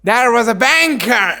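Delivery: very slow, words drawn apart; slow password phrase. Shown as a demonstration. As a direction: teach the closing phrase slowly. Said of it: "બંધ કરવા માટે".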